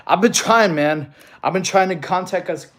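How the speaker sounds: panting between words; winded after push-ups; out of breath. Real, not acted. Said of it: "I'm a little out of breath from counting".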